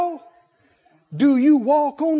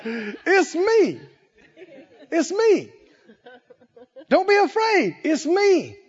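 hearty reassurance; 7 semitones higher than usual. Acted. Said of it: "Jesus spoke to them and said".

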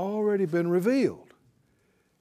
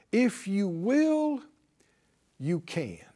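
leper's prayer; slower than usual. Retold or imitated. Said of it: "the same way the leper prayed".

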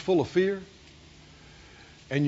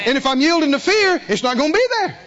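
higher, louder preacher's emphasis; fervent preaching; 8 semitones higher, 3 dB louder than usual. Acted. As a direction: drive the point home. Preaching at full force.

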